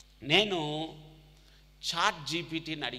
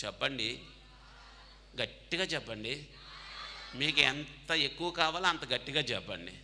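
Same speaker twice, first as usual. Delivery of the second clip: urging shout. Real, not acted. Urging crowd to answer loudly.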